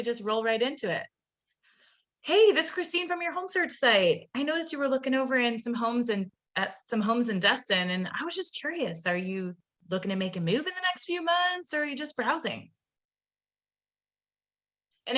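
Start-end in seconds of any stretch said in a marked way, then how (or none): 2.2-12.7 a lively opening line with some tonality; natural inflection. Shown as a demonstration. Trainer modeling a cold-call opener, natural inflection. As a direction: roll right into it with natural ups and downs. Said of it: "there's some voice inflection there, the tonality".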